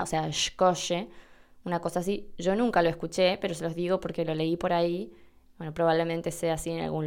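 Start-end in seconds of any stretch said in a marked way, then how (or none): 0.0-1.1 "shkoche" with a slow sh sound; English SH. Shown as a demonstration. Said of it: "la C H se pronuncia más cercana a la S H inglesa".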